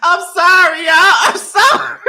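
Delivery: high, loud, breaking with laughter; real laughing fit, loud and high; laughing apology. Real, not acted. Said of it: "I gotta get myself together".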